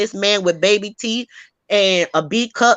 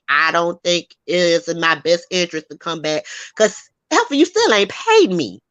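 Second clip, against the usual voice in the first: indignant retort; 3 semitones lower than usual. Retold or imitated. Ex-employee demanding her unpaid wages, getting indignant. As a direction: call her out, rising on the last line. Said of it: "The girl was like".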